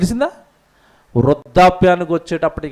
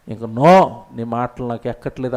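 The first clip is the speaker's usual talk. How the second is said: Solomon refusing God; 5 semitones lower than usual. Retold or imitated. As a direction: brush God off like a stubborn king. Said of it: "అంటున్నాడు సొలొమోను".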